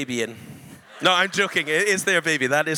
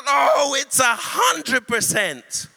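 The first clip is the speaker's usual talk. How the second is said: demon voice; 5 semitones higher, 6 dB louder, slower than usual. Retold or imitated. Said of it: "And then it goes".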